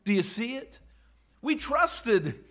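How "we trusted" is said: disappointed disciple. Acted. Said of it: "Do you hear it in his voice".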